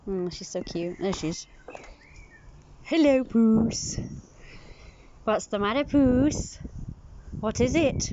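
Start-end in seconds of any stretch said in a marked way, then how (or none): 2.8-8.1 cat talk. Real, not acted. Cooing at a cat.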